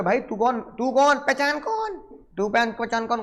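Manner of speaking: squeaky high, teasing who-are-you; mock confused buyer. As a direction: play dumb in a high mocking voice. Teacher acts buyer-seller quarrel. (ऊँची आवाज़ में मज़ाकिया अनजान बनना)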